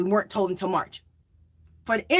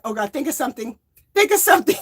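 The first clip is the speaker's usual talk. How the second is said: mock panic; 2 semitones higher, faster than usual. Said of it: "I'm panicking".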